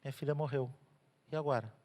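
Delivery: despairing father. Acted. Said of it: "Aí o Jairo fala".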